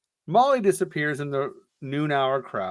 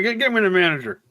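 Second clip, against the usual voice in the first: entitled customer; 4 semitones higher, faster than usual. Pretend. Karen impression.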